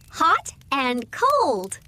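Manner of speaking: put-on slow, clear model for kids; slow say-along. Shown as a demonstration. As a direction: draw the words out for children to repeat. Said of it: "Can you say it with me?".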